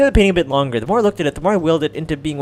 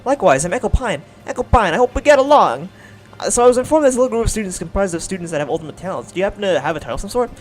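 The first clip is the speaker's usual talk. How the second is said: put-on New York accent; 3 semitones higher, 3 dB louder than usual. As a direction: play a chatty New York baker girl. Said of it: "I'm trying to make it sound New York".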